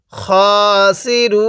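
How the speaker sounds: খাসিরুন ending on a silent ন, no final vowel; stopping pause. Shown as a demonstration. Teacher showing the waqf stop. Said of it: "এরকমভাবে শিখব".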